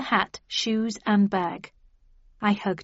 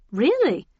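doubtful; 6 semitones higher, 4 dB louder than usual. A narrator's reading. Doubtful at cabbie.

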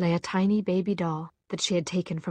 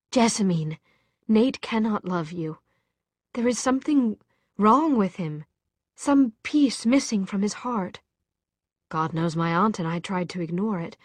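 urgent; 2 semitones higher, 4 dB louder than usual. Acted. Tessa urgently warns about Nate.

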